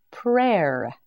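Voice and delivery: ordinary delivery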